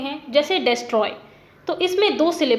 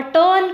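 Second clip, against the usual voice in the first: टर्न pushed out with extra force; emphatic, louder टर्न; stressed syllable; 4 semitones higher, 5 dB louder, much slower than usual. Shown as a demonstration. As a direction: put the weight firmly on टर्न. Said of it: "बोलने में जोर लग रहा है".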